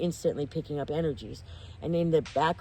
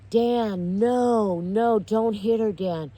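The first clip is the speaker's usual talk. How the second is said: raised, louder pleading with drawn-out words; alarmed crowd imitation; 5 semitones higher, 5 dB louder, much slower than usual. Everyone in the bar stopping Dan hitting her, alarmed pleading. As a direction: act out onlookers calling a man off, easing at the end.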